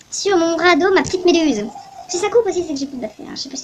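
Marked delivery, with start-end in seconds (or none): 0.1-1.6 put-on Russian accent. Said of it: "pourquoi je fais un accent russe?".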